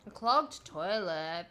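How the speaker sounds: slow, loud shocked question; outraged disbelief; disbelieving. Acted. Character reacts in disbelief.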